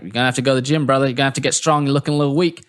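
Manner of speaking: lightly imitated blunt pep talk; slightly put-on voice of an upbeat Southerner; mock coaching, brotherly and direct; Booty. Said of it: "He's like".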